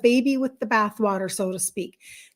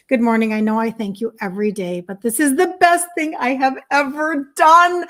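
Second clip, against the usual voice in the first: reading comment excitedly; 3 semitones higher, 4 dB louder than usual. Retold or imitated. Host reading a viewer's glowing comment aloud, excited. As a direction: read it like her thrilled viewer. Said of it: "listen to what she said".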